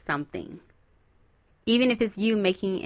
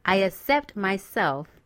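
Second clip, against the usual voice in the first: affirmation. Shown as a demonstration. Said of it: "say this to yourself".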